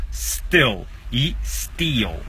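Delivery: "still" short and clipped, "steel" long ee, very slow; short versus long i. Shown as a demonstration. Teacher slowly contrasting "still" and "steel" for learners. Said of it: "ill, é mais seco".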